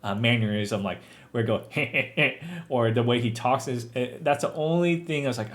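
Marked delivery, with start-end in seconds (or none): 1.7-2.6 imitated chuckle; short put-on chuckle in imitation; Seth Rogen laugh. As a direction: mimic an actor's signature laugh. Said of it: "so much Seth Rogen, uh, mannerism".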